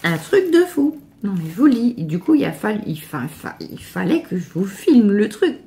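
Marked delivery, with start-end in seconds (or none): 0.0-1.0 high, slow, drawn-out gush of amazement; amazed. Real, not acted. Vlogger marvelling at the huge package, high and slow. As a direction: let the wonder spill out slowly.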